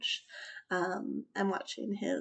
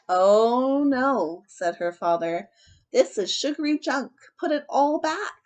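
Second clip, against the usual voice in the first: louder scolding dad; firm, louder fatherly lecture; stern father; 3 semitones higher, 8 dB louder than usual. Acted.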